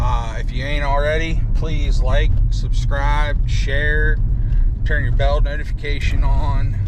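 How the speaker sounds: talking while driving on bumps; on a bumpy road. Real, not acted. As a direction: voice jostled by a bumpy ride. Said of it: "Sorry for the bumps".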